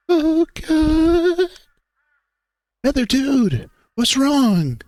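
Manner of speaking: suddenly frantic, pitch shooting up; rising urgency. Acted. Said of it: "increasing sense of urgency takes hold".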